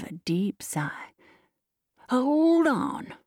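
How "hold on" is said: high, drawn-out call to stop; high, urgent hail; excited cry. A narrator's reading. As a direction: call out excitedly to halt him. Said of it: "cried Higgins excitedly".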